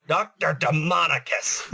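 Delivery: slow, drawn-out cartoon villain name; old-timey cartoon villain. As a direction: say it like a 1930s cartoon baddie. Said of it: "Sounds like an old-timey cartoon character".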